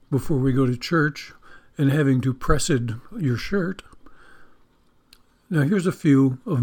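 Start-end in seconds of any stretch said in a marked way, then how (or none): 2.3-2.8 "pressed" said as PRESS-ed; two-syllable pressed. Shown as a demonstration. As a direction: give "pressed" a separate -ed syllable, like churchy "blessed". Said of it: "Christians like to say".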